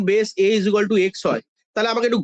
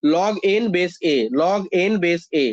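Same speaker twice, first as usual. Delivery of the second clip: slow, measured "log n base a", falling at the end; deliberate teacher's drill; pronunciation demo; 4 semitones lower, much slower than usual. Shown as a demonstration. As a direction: repeat "log n base a" slowly as a model. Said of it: "pronounce এইভাবে করি".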